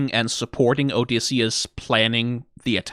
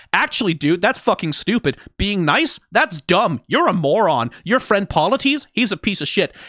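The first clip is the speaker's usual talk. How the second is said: berating Athena; 5 semitones higher than usual. Retold or imitated. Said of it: "Athena shows up".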